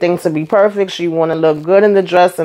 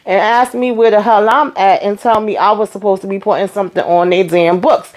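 mildly indignant, imitating an irritated caller; retold attitude. Boyfriend calling from jail about money on his books, with attitude. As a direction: play the caller's attitude, lightly mocked. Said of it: "calling with an attitude like".

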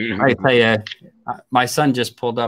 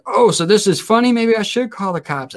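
higher-pitched mock indignation; huffy retold scolding; offended mom; 7 semitones higher than usual. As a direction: imitate an affronted mother making a threat. Retold offended mom reacts to laughter.

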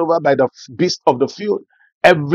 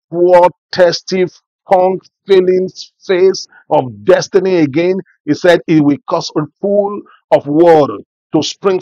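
loud, rising preacher's prayer; fervent preaching; 4 dB louder than usual. Acted. Pastor praying over the congregation, fervent preaching. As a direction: pour it out over the church.

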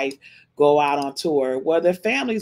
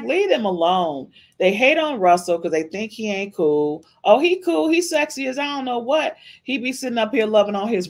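high, excited gush over him; squealing fan praise; 5 semitones higher than usual. Real, not acted. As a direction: rave about how cool he is. Gushing about Russell.

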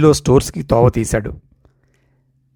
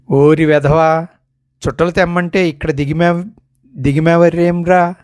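scolding father; 4 semitones higher than usual. Acted. Father catching his son idling on the veranda, scolding. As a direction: tell off the lazy son sharply.

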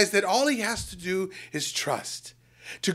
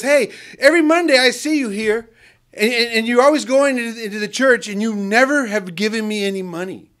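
higher, louder reproachful voice; homeless man complaining; 4 semitones higher, 6 dB louder than usual. Retold or imitated. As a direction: confront him for never giving. Homeless man confronts the speaker.

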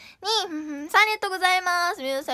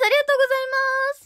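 squeaky thanks; 9 semitones higher, 4 dB louder than usual. Acted. High squeaky thank-you.

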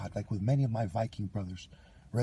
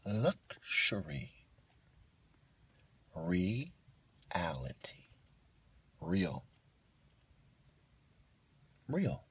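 very slow, softer, breathy last word; drawn-out murmur; 2 semitones lower, 5 dB quieter, much slower than usual. Real, not acted. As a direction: stretch each word into a whisper. Drawn-out muttered words.

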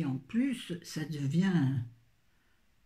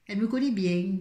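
put-on « Elle me connaît bien » avec un accent du Sud appuyé, plus fort; accent du Sud chantant pour égayer; 4 semitones higher, 5 dB louder than usual. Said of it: "je prends l'accent du Sud". (accent du Sud joyeux et un peu plus fort)

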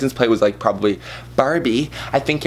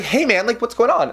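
imitating Timmy; 11 semitones higher than usual. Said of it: "He's like".

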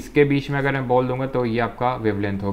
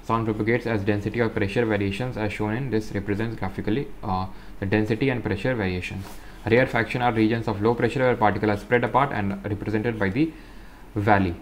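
slow, careful reading aloud; textbook reading; much slower than usual. Acted. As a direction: read each phrase out slowly for students. Reads textbook text aloud. (धीमी, साफ़ किताबी पढ़ाई)

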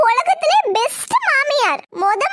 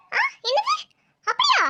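mock shock; 10 semitones higher than usual. Fake shock on phone.

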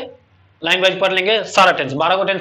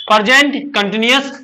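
slow teaching demo. Shown as a demonstration. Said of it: "पहले प्रेजेंट बोलते हैं".

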